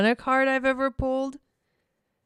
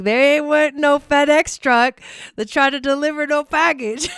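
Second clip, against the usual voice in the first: laughing indignant shout; 7 semitones higher, 5 dB louder than usual. Retold or imitated. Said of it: "I'm like".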